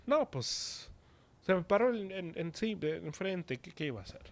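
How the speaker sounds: starts high, trails off softly; offhand, softly acted self-justification; mock excuse-making. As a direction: imitate a sinner's lame excuse. Acts out sinner making excuses.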